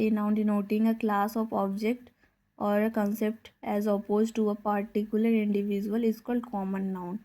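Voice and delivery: very slow, word by word; slow dictation. Acted. Teacher dictates a definition to the class, very slowly. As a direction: spell it out at writing speed.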